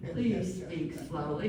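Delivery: imitating a kind, unhurried voicemail request; kindly. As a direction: echo a friend's gentle phone greeting. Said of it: "And then very kindly".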